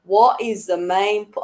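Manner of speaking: a rough go at a Black Country accent; attempted Black Country accent. Shown as a demonstration. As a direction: try a Black Country accent, then break off. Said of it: "in my best black country accent".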